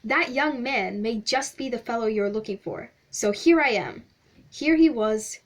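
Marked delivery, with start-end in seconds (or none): 0.0-4.0 lightly voiced stranger, done right; corrected voice. Shown as a demonstration. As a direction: back in the stranger's voice, a touch louder. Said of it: "I did it in the wrong voice".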